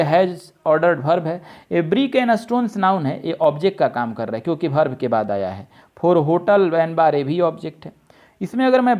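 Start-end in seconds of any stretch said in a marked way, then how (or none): 1.7-2.8 A brick and stones read out very slowly. Shown as a demonstration. Teacher reading the sentence aloud, very slow. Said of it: "reading out the sentence". 6.0-7.1 For hotel and bar read very slowly. Shown as a demonstration. Teacher reading the sentence to students, very slow. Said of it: "reading out the sentence".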